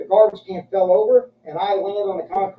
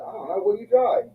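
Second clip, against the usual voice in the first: high, feigned innocent question; mock innocent. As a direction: play dumb, sweetly. Playing dumb with robbed van owner.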